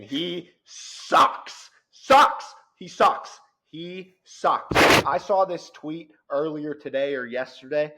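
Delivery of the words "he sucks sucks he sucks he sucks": loud, high scornful chant; mocking. Real, not acted. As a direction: jeer it like a heckler. Mocking rant about player.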